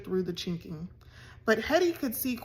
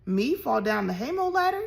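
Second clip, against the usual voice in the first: amazed; 3 semitones higher, 3 dB louder than usual. Acted. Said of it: "demanded Hetty in amazement".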